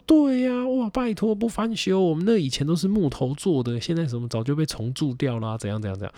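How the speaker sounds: very high auntie squeal at the start, settling down; chatty old auntie voice; shopkeeper auntie. Retold or imitated. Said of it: "他说".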